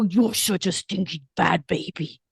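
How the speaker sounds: put-on sweet baby talk scolding a dog; fond mock scolding of a pet; cooing to a pet. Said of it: "grab your pup or your cat and you go".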